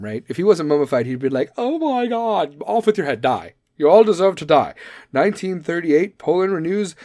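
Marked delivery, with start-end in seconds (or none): 1.6-4.7 hammed-up child king throwing a fit, pitched up, then louder on the last line; mock royal tantrum, off with your head; temper tantrum. Ten-year-old King Tut throwing a hammed-up tantrum at his wakers. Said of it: "that would be a temper tantrum".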